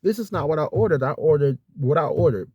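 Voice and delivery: a touch of heated insistence; firm refusal. Retold or imitated. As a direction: refuse the shared plates firmly. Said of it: "I'm like".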